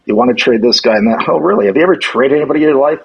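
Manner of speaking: sarcastic, rising mock scolding; mock angry rant. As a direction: rip into them like an angry boss. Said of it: "started ripping into me".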